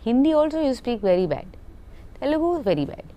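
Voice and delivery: mock complaint with swooping high pitch; imitated director, sing-song disbelief; director's exasperated scolding. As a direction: list each failing like a despairing director. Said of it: "he looked at me, he's like".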